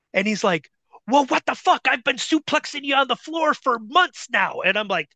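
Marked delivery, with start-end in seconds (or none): 1.1-4.6 high, incredulous protest; retold exasperation. Bull learning the rookie never trained, high exasperated mimicry. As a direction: imitate a baffled trainer protesting.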